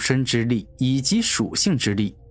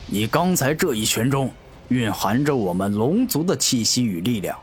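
scornful dragon. Acted. Dragon mocks the human's punch.

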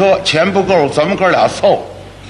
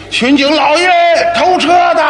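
calling the police; 11 semitones higher than usual. Retold or imitated. Second brother shouts to the policeman about the thief, high yell. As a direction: holler to the cop across the street. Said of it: "我叫巡警".

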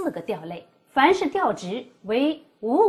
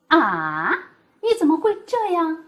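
啊 dipping and rising, then a high, loud 你怎么会这样; a staged gasp of surprise, much higher and louder; mock shock; 7 semitones higher, 7 dB louder than usual. Shown as a demonstration. Teacher acting out being startled to show the dipping third tone. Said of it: "这个啊就是上声的".

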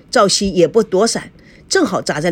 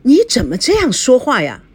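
higher-pitched, indignant reproach; suppressed anger; 6 semitones higher, 4 dB louder than usual. A narrator's reading. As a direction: object while holding back your anger. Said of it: "强烈地压制了怒火". (压着怒火说)

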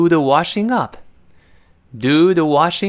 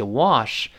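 "Wash" in American English, open ah vowel; 2 semitones lower than usual. Shown as a demonstration. Teacher contrasts accents, American "Wash" with open vowel. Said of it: "美音口型大一些".

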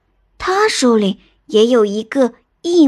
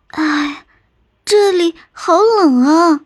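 slow, higher-pitched chilled groan; shivering cold; 5 semitones higher, slower than usual. Acted. Little sister hit by the cave's chill, shivering. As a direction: draw it out as if chilled through. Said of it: "妹妹两只手抱在一起说".

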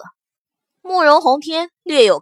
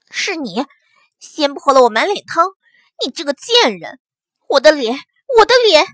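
hysterical screaming; 3 semitones higher, 4 dB louder than usual. Acted. Scalded woman screams in rage.

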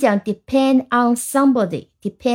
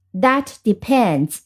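slow demo; slower than usual. Shown as a demonstration. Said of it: "通常用的都是现代时".

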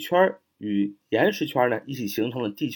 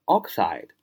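oxide with the ox punched and the ide falling away; stress on first syllable; 4 semitones lower than usual. Shown as a demonstration. Teacher shows students the stress in oxide, first syllable hit. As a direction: hit the ox of oxide, then drop. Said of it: "重音在最前面，oxide".

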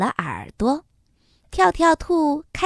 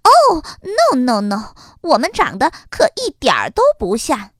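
loud outburst; 4 dB louder than usual. Acted. Rabbit mother loudly interrupts the horse doctor. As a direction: cut him off loudly. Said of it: "就大声说".

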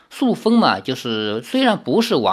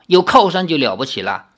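scornful grumble; faster than usual. Acted. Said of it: "天鬼皇忍不住哼了一声".

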